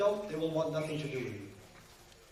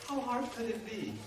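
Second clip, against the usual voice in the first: exasperated outburst; 6 semitones higher, slower than usual. Retold or imitated. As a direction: throw it back at him. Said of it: "And you're like".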